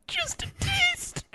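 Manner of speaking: mock tease. Replayed joke line, higher.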